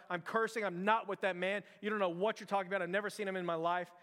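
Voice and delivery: mildly heated imitation of a denial; mock cursing denial. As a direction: insist on it, as if cursing. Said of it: "Peter starts cursing".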